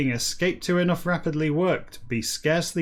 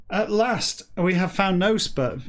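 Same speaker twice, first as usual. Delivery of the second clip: mock triumph; 4 semitones higher than usual. Real, not acted.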